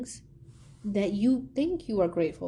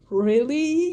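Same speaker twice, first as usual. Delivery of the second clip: higher, louder, disbelieving; exasperated parent; 6 semitones higher, 7 dB louder than usual. Retold or imitated. Parents staring at their daughter, mock exasperated. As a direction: parents fed up after a night in hospital. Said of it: "parents were just sitting there staring".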